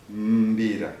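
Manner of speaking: "Mbira" with the M and B run tightly together; tight sound blend. Shown as a demonstration. Teacher showing the audience how "Mbira" is pronounced, M-B sounds tightly joined. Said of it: "make all the sounds, but very tight".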